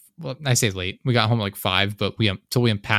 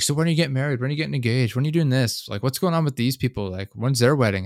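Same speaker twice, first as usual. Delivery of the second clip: higher-pitched imitation of a pestering relative; lightly voiced nagging questions, pitched up; nosy grandmother; 5 semitones higher than usual. Grandmother grilling the visiting couple about marriage, mock nagging.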